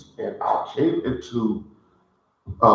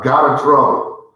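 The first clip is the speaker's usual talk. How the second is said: got in trouble said a bit louder, with energy; louder exclaim; 2 semitones higher, 5 dB louder than usual. Real, not acted. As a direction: punch out got in trouble as a lively confession. Repeated confession, louder first take.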